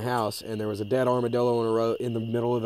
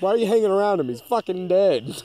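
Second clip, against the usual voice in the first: loud, high furious scolding; pissed off; 8 semitones higher, 7 dB louder than usual. Retold or imitated. Scolding the armadillo beside its dead friend, angry and loud. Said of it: "'Cause I was really pissed off".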